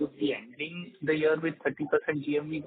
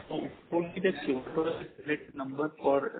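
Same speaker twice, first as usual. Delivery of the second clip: muffled, like a hand over mouth; 3 dB quieter than usual. Real, not acted. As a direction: speak through a covered mouth. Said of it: "you're sounding muffled".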